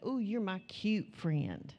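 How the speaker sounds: slow, doting ooh; a touch of sweet affection; fond. Shown as a demonstration. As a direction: coo it to a dear friend. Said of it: "it makes such a difference".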